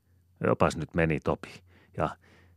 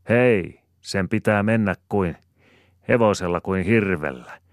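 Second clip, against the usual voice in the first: much higher, louder hearty shout; brisk shout; 4 semitones higher, 6 dB louder than usual. A narrator's reading. Rosina shouts while running beside the sleigh, loud. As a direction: urge the mare on at full voice. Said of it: "Siinä reipas Rosina huutaa".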